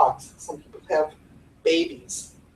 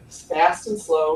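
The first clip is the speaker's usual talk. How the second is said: slow; 4 semitones lower, slower than usual. Shown as a demonstration. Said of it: "Use your voice".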